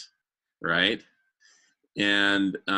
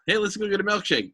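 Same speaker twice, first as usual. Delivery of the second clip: mascot's friend; 11 semitones higher, faster than usual. Acted. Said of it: "you know".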